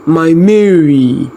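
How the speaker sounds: slow, drawn-out happy greeting; father delighted on the phone; joyful boom. A narrator's reading. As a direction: greet her with joy. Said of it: "His voice boomed with joy".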